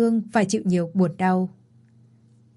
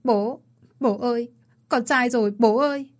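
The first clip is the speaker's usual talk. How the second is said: tearful plea; 3 semitones higher than usual. Acted. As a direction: beg forgiveness through mild sobs. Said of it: "Ly khóc lớn ôm ông". (con gái khóc xin lỗi bố, giọng nghẹn ngào)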